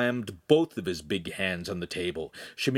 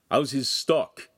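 grunted; 4 semitones higher, 3 dB louder, slower than usual. Acted. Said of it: "he grunted".

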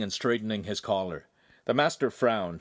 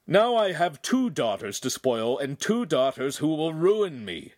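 laughing joke; 6 semitones higher, 3 dB louder than usual. A narrator's reading. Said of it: "Agostino laughed".

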